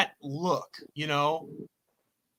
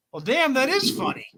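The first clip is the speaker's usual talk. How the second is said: mock realization; 6 semitones higher than usual. Acting out reaction to the story.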